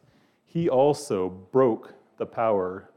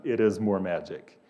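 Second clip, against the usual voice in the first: lightly voiced lion, lowered in pitch; calm lion; 4 semitones lower than usual. Aslan confirms it to the children, calmly.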